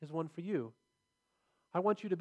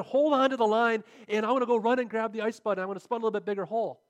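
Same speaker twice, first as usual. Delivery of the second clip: loud, higher urgent orders; father calling orders to his son over the ice; urgent instruction; 4 semitones higher, 6 dB louder than usual. Retold or imitated. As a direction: tell him fast to hold the line. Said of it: "So he said".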